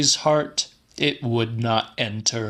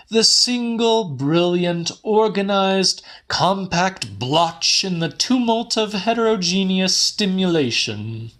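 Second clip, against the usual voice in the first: Neary's voice, much higher and louder; Neary, declaiming; 9 semitones higher, 3 dB louder than usual. A narrator's reading. Neary defining love to Murphy, much higher and louder. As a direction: ecstatic Neary, pitched high and loud.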